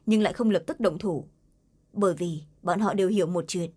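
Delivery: ordinary delivery, nothing marked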